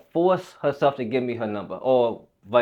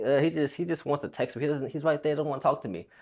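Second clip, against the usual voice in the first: mildly exasperated, softer imitation of a girl; frustrated; 3 semitones higher, 6 dB quieter, faster than usual. Retelling the crush complaining to her friend, mildly frustrated. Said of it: "she kinda got frustrated".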